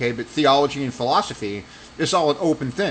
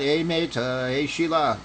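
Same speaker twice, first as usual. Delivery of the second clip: mock Australian accent; slower than usual. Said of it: "He was talking in an Australian accent".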